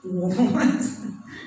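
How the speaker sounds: low scoffing laugh. Retold or imitated. Cain answering God, low scoffing laugh. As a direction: scoff like an unrepentant man. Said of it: "ngomongnya sambil gini".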